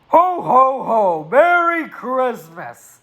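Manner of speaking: slow, jolly mock Santa ho-ho-ho; a lightly voiced Santa, drawn out. Streamer greets the bald character as Santa, slow mock jolly. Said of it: "He looks like a bald Santa".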